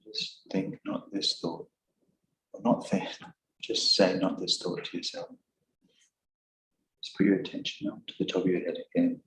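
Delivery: softly spoken meditation guidance; guided meditation. Real, not acted. Teacher guiding meditators back to attention, softly spoken guided meditation. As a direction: guide them gently, a little hushed.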